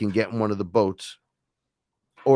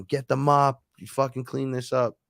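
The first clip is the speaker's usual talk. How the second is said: mild mock yell, raised pitch; retold yelling; 5 semitones higher than usual. Beings ordering his buddy to clean up, mock yelling. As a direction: imitate an angry order without full volume. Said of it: "they're yelling at him".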